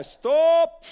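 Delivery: loud, high order to halt; commanding shout. Acted. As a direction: halt everyone with one word. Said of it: "Och Jesus säger". (högt, befallande rop)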